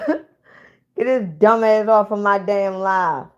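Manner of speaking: slow, laughing dismissal. Real, not acted. Kicking the troll off the live, laughing slowly. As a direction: laugh him off the stream.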